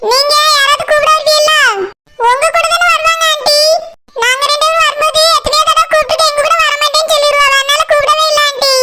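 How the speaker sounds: lightly voiced schoolchild talking to an aunty; child voice. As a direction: play the kid explaining to the aunty.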